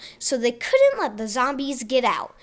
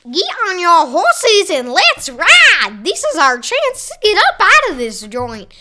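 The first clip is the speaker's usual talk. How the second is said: rallying cry; 6 semitones higher, 9 dB louder than usual. Acted. Rallying the theater crowd.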